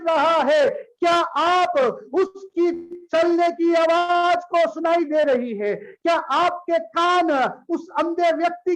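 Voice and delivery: forceful, projected sermon delivery; impassioned preaching. Real, not acted. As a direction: press each question on the congregation. Preacher exhorts the congregation. (जोशीला उपदेश, पुकार भरे स्वर में)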